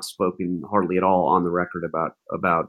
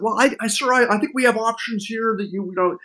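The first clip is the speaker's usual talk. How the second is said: much higher, halting mock-deferential voice; imitating a stammering aide; 11 semitones higher than usual. Advisor hedging to the president, in a high stammering mock voice. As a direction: play a nervous advisor fumbling for words. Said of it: "H R's like".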